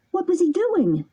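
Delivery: put-on high, urgent boy voice; anxious puppet. A narrator's reading. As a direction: beg for news anxiously. Pinocchio asks.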